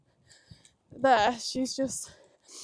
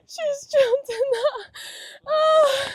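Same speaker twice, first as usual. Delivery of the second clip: high, slow, laughing disbelief; laughing in surprise; 12 semitones higher, slower than usual. Real, not acted. Horse jumps unexpectedly, rider laughs.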